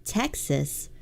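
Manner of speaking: drawn-out Southern accent on the state names; slow Southern twang, stretching each state; Southern drawl, half laughing. Shown as a demonstration. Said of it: "I'm saying it like a northerner".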